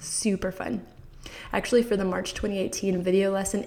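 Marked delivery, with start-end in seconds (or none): 0.0-0.9 whispered. Real, not acted. Excited whispered aside.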